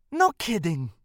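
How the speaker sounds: deadpan, unimpressed reply; flat voice. Acted. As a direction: say it flatly, without enthusiasm. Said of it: "her voice flat".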